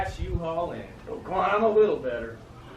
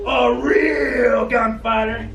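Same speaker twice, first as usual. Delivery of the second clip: slow, loud scornful A real gunfighter!; mocking shout; 3 semitones higher, 5 dB louder, much slower than usual.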